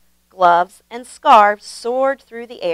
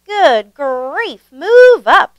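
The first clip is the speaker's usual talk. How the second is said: much higher, louder annoyed shout; yelling; 6 semitones higher, 7 dB louder, much slower than usual. A narrator's reading. Grandpa Dan shouting at the baker to move, loud. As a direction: bark at the baker on top of him. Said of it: "yelled Grandpa Dan".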